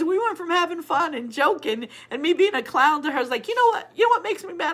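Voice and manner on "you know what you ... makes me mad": put-on much higher and louder, a young girl dead serious; serious granddaughter. Grandma re-acting granddaughter's serious question, high earnest child voice. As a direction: play the kid grave and earnest. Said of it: "She was so serious".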